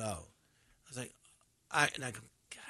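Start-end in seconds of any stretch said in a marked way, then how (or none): 2.5-2.6 hushed, low retold dismay; quiet, mock-crushed aside. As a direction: mutter it low, as if let down. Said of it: "I was so upset".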